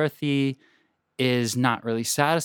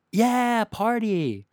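mock careless partygoer; 11 semitones higher, much slower than usual. Mourners who just don't care, mock cheerful. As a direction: shrug off a death like a party guest. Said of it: "everybody just was like".

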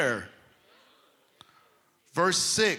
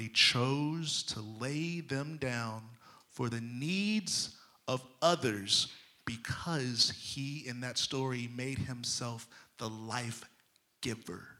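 hushed; 2 semitones lower, 6 dB quieter than usual. Acted. Preacher confiding Joseph's choice to the congregation, hushed whisper. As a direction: drop to a near whisper.

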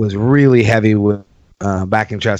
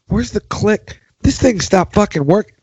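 high annoyed complaint; mock-frustrated, higher; frustrated at machine; 9 semitones higher than usual. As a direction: blame the broken machine. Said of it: "I'm listening and going".

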